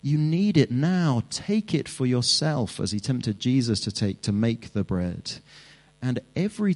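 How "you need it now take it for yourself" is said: Satan tempting. Acted. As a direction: lure them in like the devil. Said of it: "Satan will say".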